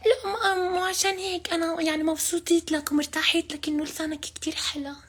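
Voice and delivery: man doing a woman's voice. Acted.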